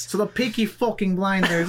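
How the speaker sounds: playful put-on British accent; lightly hammed-up British voice; mock British. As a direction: start explaining as a mock British lad. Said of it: "a harsh British voice".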